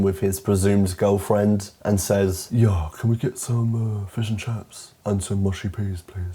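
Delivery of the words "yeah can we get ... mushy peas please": lightly voiced Oxford toff; a hint of pompous self-importance; pompous rich man. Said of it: "pompous, rich Oxford man".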